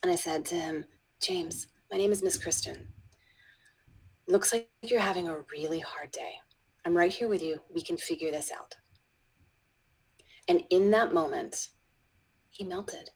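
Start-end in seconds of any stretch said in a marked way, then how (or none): 1.2-8.8 put-on soft, hushed reassurance to a child; calm him down gently, almost whispering; soothing.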